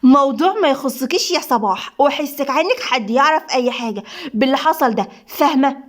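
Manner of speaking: contained angry warning; furious, understated. Acted. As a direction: warn her off with a touch of fury. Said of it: "نادين بغضب جحيمي".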